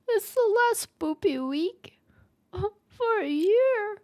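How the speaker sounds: slow, breathy spooky whisper with a laugh. Acted. Streamer whispering to chat about the last spooky week. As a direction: whisper it like a ghost story.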